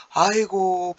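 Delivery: a loud mock wail of grief, aigo. Teacher voicing Heungbo's wail of grief, loud mock wail. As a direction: wail like a man dreading the beating. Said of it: "막 울면서 와요".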